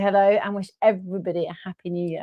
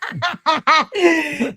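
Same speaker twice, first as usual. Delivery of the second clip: real laugh; 5 semitones higher, 4 dB louder than usual. Real, not acted. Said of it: "Oh my gosh".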